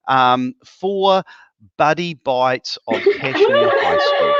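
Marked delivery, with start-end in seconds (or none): 1.8-4.3 excited announcement. Real, not acted. Announcing winner after drum roll.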